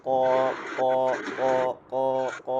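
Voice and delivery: "ক" hard, made back in the throat; hard throaty letter. Shown as a demonstration. Teacher drilling the letter, hard throaty "ক". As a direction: hit "ক" from the throat. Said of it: "hard করে".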